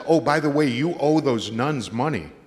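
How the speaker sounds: loud announcement. Real, not acted. Storyteller loudly opening the tale about Father Mark. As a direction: belt out the start of the anecdote.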